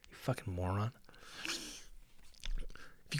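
breathy whispered aside; a secret whispered to the audience. Real, not acted. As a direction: lean in and whisper it.

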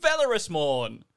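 hammy stage actor. Acted. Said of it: "I thought you would do Shakespeare".

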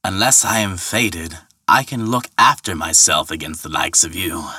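defiant retort. Acted. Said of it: "retorted the ferryman".

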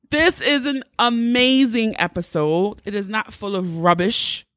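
lightly put-on British accent; playful mock-British delivery. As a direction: announce it in a badly faked British accent. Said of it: "I'm gonna do this as much as I'm talking".

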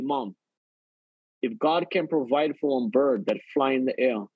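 son reassuring his mom with faith; calm faith. Retold or imitated. Calm faith reply to mother.

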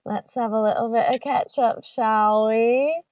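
hammed-up British accent. Redoing the British manager impression, put-on British accent. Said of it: "was British".

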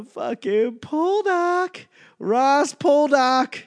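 high, slow Boston "Poldark" with a dropped r; slow Boston accent. Retold or imitated. Naming the show, in a slow, drawn-out Boston accent. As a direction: savor "Ross Poldark" like a Bostonian. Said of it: "that Boston accent shows up".

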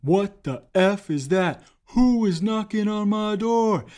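high, loud, slow furious yell of "What the F is that"; booming angry voice. Retold or imitated. Angry man inside the house yells at the door-to-door salesman, booming. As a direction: bellow at the stranger knocking on the door. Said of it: "this booming voice".

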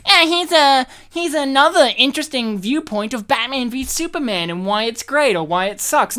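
lightly mocking, high and loud pundit voice; mock internet pundit. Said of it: "typical internet people who are like".

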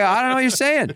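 high, exasperated protest. Retold or imitated. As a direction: throw up your hands. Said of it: "And I, I".

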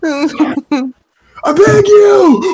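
high, loud pompous rich man pleading; pompous rich guy voice. Pretend. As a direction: beg like a spoiled rich man stuck at a door. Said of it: "but with, like, a pompous rich guy voice".

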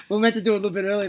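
bursting out laughing; loud laugh. Real, not acted. Laughing at lost voice.

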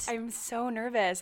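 shy, hesitant delivery; bashful nervous voice. Pretend. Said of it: "you sound so bashful and so nervous".

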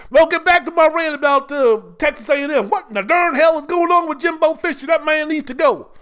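put-on over-the-top Southern redneck accent, indignant; mock Southern accent. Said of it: "but the voice and everything".

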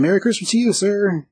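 high, sing-out mock farewell; mock cheery send-off. Shop owner to rejected seller, mock cheery. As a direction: lift it high in a mock-polite goodbye.

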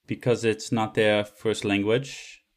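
slow mock French accent; careful, slowed French-accented English. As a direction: explain it slowly in a put-on French accent. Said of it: "me doing that accent in".

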